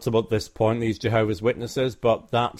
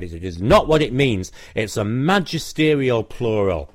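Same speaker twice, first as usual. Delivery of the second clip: mildly indignant insistence; retold anger. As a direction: imitate an offended man firmly objecting. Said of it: "became very angry".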